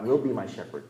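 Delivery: "will" picked out as future tense; stress on "will". Shown as a demonstration. Preacher rejecting the future tense, stress on "will". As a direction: lean on "will", then let it fall. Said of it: "you emphasize different words".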